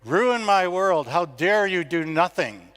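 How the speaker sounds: slow, high, loud and accusing; drawn-out yell, pitched high, at world leaders; imitated yell. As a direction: hurl it at the officials like a young activist. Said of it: "she yelled at them and said".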